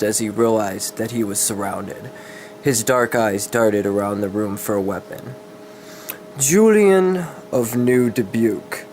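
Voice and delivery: steady dramatic storybook reading; story narration. A narrator's reading. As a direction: read the dark fantasy tale aloud, evenly. Reads a dark fantasy story.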